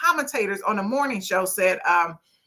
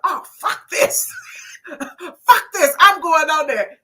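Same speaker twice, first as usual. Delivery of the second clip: laughing mock quote; 6 semitones higher, slower than usual. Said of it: "she's like".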